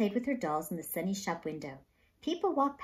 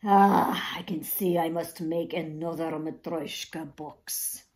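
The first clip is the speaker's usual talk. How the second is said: dramatic sigh; 5 dB louder than usual. Acted. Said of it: "with a loud, dramatic sigh".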